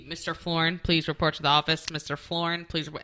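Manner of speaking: loud, formal PA announcement; school intercom. Retold or imitated. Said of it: "and it would be".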